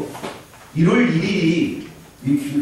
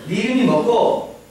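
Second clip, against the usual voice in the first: put-on higher, Gyeongsang-accented teacher question; 6 semitones higher than usual. Teacher asking a student's name in Gyeongsang dialect. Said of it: "경상도 말로 해보려고 하는데".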